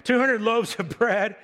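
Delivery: amused disbelief at the huge amount; laughing mid-phrase. Real, not acted. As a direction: laugh breaking into the list. Who's got two hundred loaves of bread.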